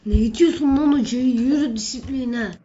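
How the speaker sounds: loud angry yell, sent to discipline; furious teacher shout. Acted. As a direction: roar at the student who pushed you. Teacher furious after being pushed.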